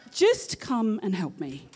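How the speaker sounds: slow, measured plea; patient, deliberate request; calm under pressure. Retold or imitated. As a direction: imitate a composed colleague, drawn out. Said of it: "she's always super calm under pressure".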